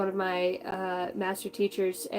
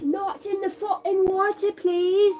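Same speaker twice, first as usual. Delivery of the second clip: much higher, sharp yell at someone nearby; real exasperated call-out, pitched high; sudden scolding shout; 11 semitones higher, 4 dB louder, slower than usual. Real, not acted. Scolding someone off-camera near water.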